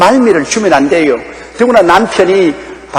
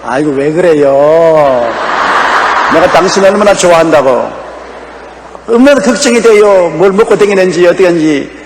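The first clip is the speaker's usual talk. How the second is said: sweet wife. Acted. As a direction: soothe him like a doting wife.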